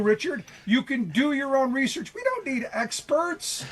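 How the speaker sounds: mock-earnest argument, dripping with sarcasm; snarky sarcasm. Real, not acted. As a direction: sarcastically pretend to champion the amateurs. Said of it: "I love the snarky sarcasm there".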